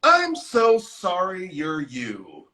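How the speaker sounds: slow, drawn-out mock sympathy; imitated condescending boss. Boss looks at Sybil, imitated slow condescension. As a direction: imitate a boss pitying her, slowly. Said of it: "her boss looks at her and she goes".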